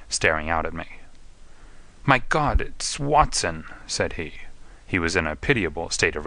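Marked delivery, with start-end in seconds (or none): 2.0-3.6 slow, higher gasp of recognition; a dazed addict blinking at his friend; hint of a shaken, bewildered man; startled recognition.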